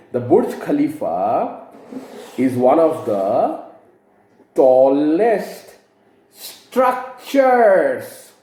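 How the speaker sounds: slow read with "structures" rising on the plural ending; stress on structures. Shown as a demonstration. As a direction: draw out "structures" to mark the plural. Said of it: "So it will be".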